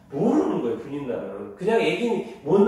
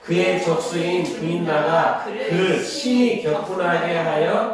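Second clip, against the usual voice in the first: slow, measured chant of the Bible text; scripture reading; 3 dB louder, slower than usual. Acted. Teacher leads the class reading the Samuel passage, solemn and slow. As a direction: read it aloud like a solemn recitation.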